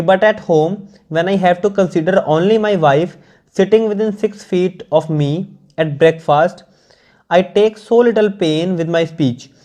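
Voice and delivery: slow, measured English read-aloud; deliberate dictation-like reading; careful text reading. Acted. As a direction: read it out slowly, phrase by phrase.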